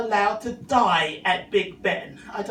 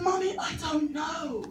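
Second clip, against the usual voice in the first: put-on little boy voice; 5 semitones higher, 6 dB quieter than usual. Son denies again.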